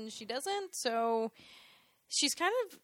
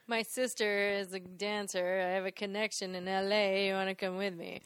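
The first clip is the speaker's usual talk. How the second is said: tag; 5 semitones lower than usual. Retold or imitated. Voicing Buzz's pick-up line.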